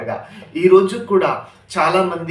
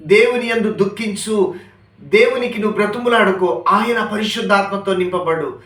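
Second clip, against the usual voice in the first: raised, pleading call to repent; fervent preaching; 3 semitones higher than usual. Acted. Preacher urging the congregation to repent, fervent call. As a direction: urge the congregation to repent, pitch lifted.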